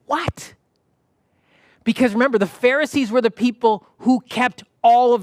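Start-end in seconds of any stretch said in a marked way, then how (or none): 0.1-0.5 shocked what. Retold or imitated. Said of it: "To which they would have said".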